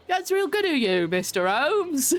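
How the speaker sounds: high, drawn-out mock Cockney urchin. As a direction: ham up a bad Cockney accent, laughing at the end. Mimicking the game's Cockney boy.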